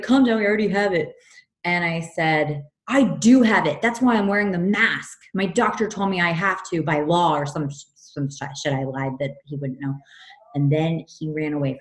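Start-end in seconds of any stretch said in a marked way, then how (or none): 0.0-1.1 high, loud mock "calm down" voice; imitated dismissive stranger. Homeless man to the frightened woman, loud dismissive retort. 2.9-7.3 raised, insistent comeback; retold defiant retort. Woman lying to scare a man away, insistent retort.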